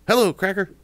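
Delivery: very high, loud parrot screech; shrieking parrot squawk for every customer. Retold or imitated. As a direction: screech it like a pet parrot at the door. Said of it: "he would go".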